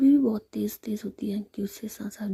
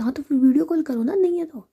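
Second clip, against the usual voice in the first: higher, louder demand; insistent challenge; 5 semitones higher, 7 dB louder than usual. A narrator's reading. Ritika dares Sami to video call, insistent. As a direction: push back in a teasing quarrel.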